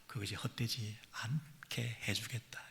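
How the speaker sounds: slow, hushed promise; soft whisper. Acted. God promises their tears were not in vain, whispered. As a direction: whisper it like a secret reassurance. God's promise, softly quoted.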